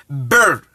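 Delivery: "Ber" low as a single open syllable; Akan letter sound. Shown as a demonstration. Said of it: "because I am speaking from a language".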